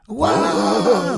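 loud high joint scream; screaming together. Acted. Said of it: "they screamed together".

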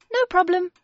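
put-on high bright child voice; girl voice. A narrator's reading. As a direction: play a young girl, breezy. Mary voiced in story.

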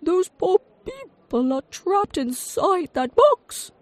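very high, loud, slow alarmed shout. A narrator's reading. Inventor seeing a television, shouting in alarm. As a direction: cry out to save them. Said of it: "he shouted".

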